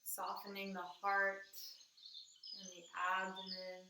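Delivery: calm, measured meditation guide; even-toned meditation, phrase by unhurried phrase; guided meditation. Acted. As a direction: guide them inward, leaving long pauses between phrases.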